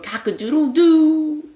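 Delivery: a flustered bird crowing. Acted. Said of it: "who crowed".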